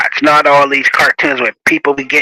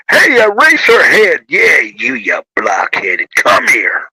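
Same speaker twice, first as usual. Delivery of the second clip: a hint of a schoolyard bully taunting; mock mean teasing; 4 semitones lower than usual. Shown as a demonstration. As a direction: tease like a playground jerk, half in jest. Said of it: "Bad teasing is".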